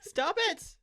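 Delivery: high exasperated shout at computer; exasperated yelling. Real, not acted. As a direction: tell the popup off, loud and fed up. Yelling at antivirus popup.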